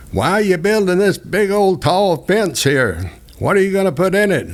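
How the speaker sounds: put-on high, fast, prying old lady voice; a high fussy neighbor lady; nosy old lady. Neighbor lady questioning him over the fence, high and fast.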